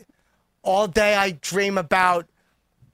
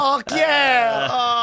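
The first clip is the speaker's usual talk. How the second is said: silly clown; 4 semitones higher than usual. Acted. Clowning character banter.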